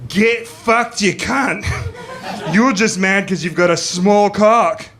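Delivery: loud, high taunting yell; defiant retort. Retold or imitated. Comic voicing his girlfriend turning on the biker, defiant. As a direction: hurl it back, brash and scornful.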